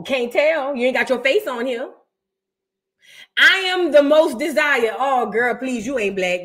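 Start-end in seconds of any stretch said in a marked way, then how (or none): 3.4-5.0 mock haughty commenter. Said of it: "Is it just me says".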